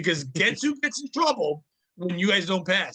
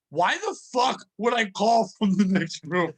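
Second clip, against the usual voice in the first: exasperated boss; slower than usual. Retold or imitated. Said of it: "my boss just goes".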